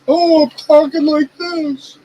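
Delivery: hammed-up fake deep voice, stretched out slow; mock someone forcing their voice down; overdone imitation of a try-hard deep talker; mocking a put-on deep voice. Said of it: "they sound like".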